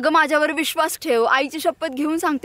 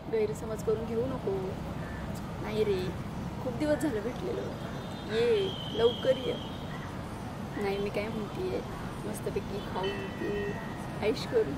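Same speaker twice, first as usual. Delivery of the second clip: hushed phone call; 8 semitones lower, 12 dB quieter than usual. Acted. Secret phone call with boyfriend.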